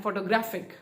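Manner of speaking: फोटोग्राफिक with the beat moved onto ग्राफिक; teacher showing the shift to "ग्रा" in फोटोग्राफिक; stress on GRAPHIC. Shown as a demonstration. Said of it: "ग्राफिक पे चला गया".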